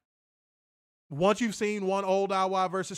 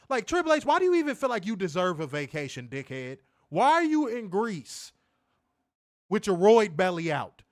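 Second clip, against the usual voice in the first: angry rant; 3 semitones higher, 4 dB louder than usual. Real, not acted. Ranting at Triple H.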